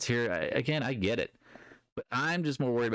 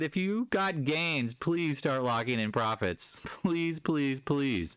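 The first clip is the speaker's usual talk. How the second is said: mock pleading; 4 semitones higher, much slower than usual. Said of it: "I said".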